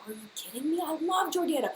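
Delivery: thrilled singsong cry; excited fangirl. Retold or imitated. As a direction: gush and sing the name out slowly. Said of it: "I was like".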